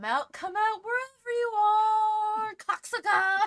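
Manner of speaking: very high, very loud, drawn-out, rising shrill shout. Voicing pursuers calling out from behind the players: yelling. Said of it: "yells and shouts behind you".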